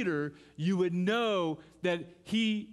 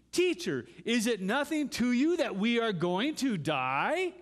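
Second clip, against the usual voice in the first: frantic cry; 5 semitones higher, 5 dB louder than usual. Acted. Disciples crying out in storm.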